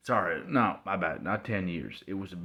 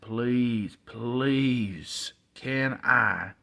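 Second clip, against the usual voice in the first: drawn-out, higher pleading; begging; 4 semitones higher, 5 dB louder, much slower than usual. Retold or imitated. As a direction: beg your parents like a kid. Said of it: "So I begged my mom and dad".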